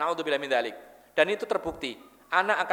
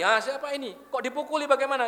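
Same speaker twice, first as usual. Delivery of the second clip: higher, indignant parent demanding answers; angry parent; 7 semitones higher than usual. Retold or imitated. The other parent hears his son was beaten, indignant. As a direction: protest like an upset father. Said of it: "Orang tuanya marah lagi".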